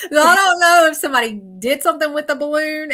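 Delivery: tears and laughter at once; laughing through tears. Real, not acted. Medium laughs through tears about the boy's balloon.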